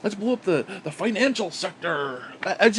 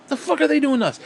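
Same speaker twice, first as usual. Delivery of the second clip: higher, pressing real question; own indignant question; 10 semitones higher, 3 dB louder, faster than usual. Real, not acted. Ranting at hawks, asks it again in earnest. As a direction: ask it straight and pointed.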